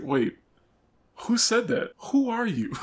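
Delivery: high alarmed questions; suddenly spooked and confused; startled. Retold or imitated. Startled by voice in head.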